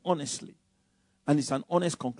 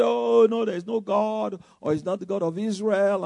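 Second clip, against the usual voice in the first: imitated skeptics; 4 semitones higher than usual. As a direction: dismiss it like a scoffing doubter. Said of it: "So when people say".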